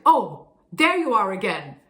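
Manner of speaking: unimpressed, slightly pushed greeting; edgy. Shown as a demonstration. Not-so-happy greeting to spouse, mildly edgy. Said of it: "edgy sort of sound".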